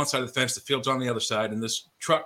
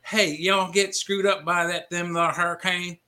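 higher, slower imitation of a Georgia drawl; Georgia accent; 5 semitones higher than usual. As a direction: play a Georgia teen calling out from a truck, mock Georgia accent. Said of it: "in a deep Georgia accent goes".

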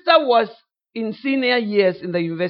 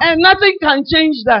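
mock preacher's boast; 5 semitones higher, 6 dB louder than usual. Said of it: "he started to say".

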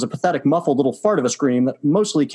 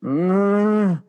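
muttered groan; 6 semitones higher than usual. A narrator's reading. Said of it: "and she muttered".

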